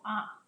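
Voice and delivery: "ah" as a brief short O; short vowel. Shown as a demonstration. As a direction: model the isolated short vowel "ah". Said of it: "it becomes a short vowel".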